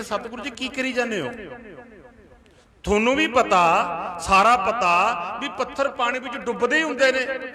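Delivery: mildly testy protest, rising in pitch; exasperated. Retold or imitated. Sikhs protesting to their Guru about sinking stones, mildly exasperated. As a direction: protest with a touch of impatience. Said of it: "ਸਿੱਖ ਤਲਖੀ ਵਿੱਚ ਆ ਗਏ".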